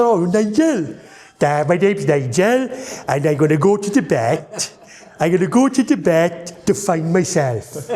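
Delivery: playing his comic character Nigel dreaming of Tibet. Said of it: "You did this voice".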